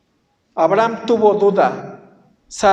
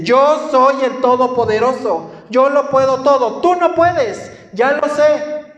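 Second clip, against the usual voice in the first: God speaking strongly; 4 semitones higher than usual. Retold or imitated. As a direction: cut off the complaints with firm authority. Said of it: "te habla fuerte". (Dios hablando con fuerza y autoridad)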